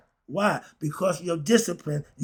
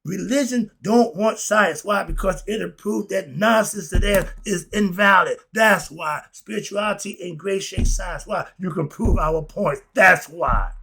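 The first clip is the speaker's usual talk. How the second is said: louder, fired-up preaching; getting carried away with the point; excited; 2 semitones higher, 4 dB louder than usual. Real, not acted. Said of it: "I get a little excited about this part".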